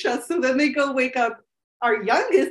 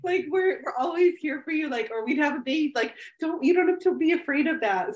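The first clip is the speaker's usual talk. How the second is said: soothing mom; 4 semitones higher than usual. Retold or imitated. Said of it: "I'm like".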